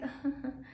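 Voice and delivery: soft, brief chuckle; small restrained demo laugh; little laugh. Shown as a demonstration. Woman hinting he must still impress her, little laugh. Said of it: "Like a little bit".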